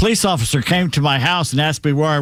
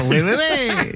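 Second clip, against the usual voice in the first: put-on French accent; 9 semitones higher, slower than usual. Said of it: "How can you laugh in a French accent".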